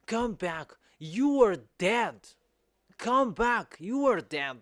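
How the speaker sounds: loud, high call to come back. Acted. Preacher calling humans back, crying out high. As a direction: cry out a warning, pitch swooping up then falling.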